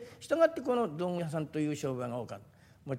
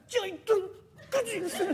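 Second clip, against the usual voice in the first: much higher, timid woman's call; shy young woman; 3 dB louder than usual. Retold or imitated. Young woman shyly calling the junkman, high timid voice. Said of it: "若い女の人がもう気兼ねしながら".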